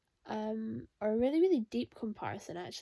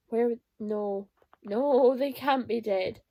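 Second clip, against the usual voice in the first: loud protesting no; real distressed protest; upset denial; 6 dB louder, slower than usual. Real, not acted. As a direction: refuse to accept the news. Denial at characters' fate.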